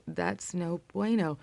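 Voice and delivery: slow, soft, dead-flat retelling of the words; a hint of a boyfriend's blank indifference; slow flat deadpan. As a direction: let it drop flat and empty, slowly. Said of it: "he said these words".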